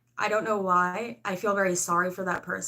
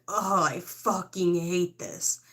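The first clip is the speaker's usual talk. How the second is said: mock grumbling; much slower than usual. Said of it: "That's how I feel".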